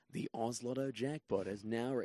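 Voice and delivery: light announcer read, cut short; toned-down advert announcer voice; lotto commercial voice. Retold or imitated. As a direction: launch into a jackpot voiceover. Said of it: "do the voice".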